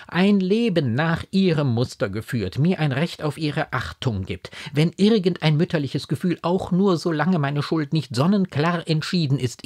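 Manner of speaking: high, insistent pleading that keeps pressing; impassioned, rhetorical appeal; eloquent anguish. A narrator's reading. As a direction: beg with pained eloquence. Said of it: "mit der Beredsamkeit des Schmerzes".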